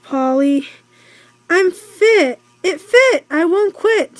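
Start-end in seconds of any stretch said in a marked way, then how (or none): 1.5-4.2 higher, chirpy parrot talking. Acted. Parrot Rainbow rhyming to Polly, higher. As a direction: play the parrot, pitched up and bright. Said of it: "said Rainbow".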